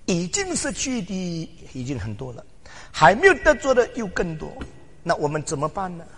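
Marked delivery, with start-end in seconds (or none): 2.9-4.5 没 lifted high and loud; stress on 没. Shown as a demonstration. 没 stressed as the preacher repeats to the congregation. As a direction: punch 没 hard, higher and louder. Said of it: "还没有得着的还更多".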